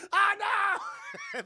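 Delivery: drawn-out scared cry; hammed-up frightened wail; mock wail. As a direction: wail like you're about to get shot. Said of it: "He's just screaming".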